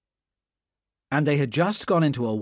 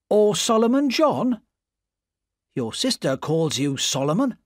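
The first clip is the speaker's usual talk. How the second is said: higher, louder voice of a blunt, suspicious man; Jerry Cruncher; 8 semitones higher, 4 dB louder than usual. Acted. Jerry confronts the spy about his real name, in a loud suspicious voice. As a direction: press him for his name like a man sure he's caught him.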